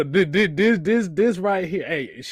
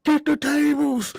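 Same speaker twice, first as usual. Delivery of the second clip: calling out; 9 semitones higher, 4 dB louder, slower than usual. Real, not acted. Calls out to Devon.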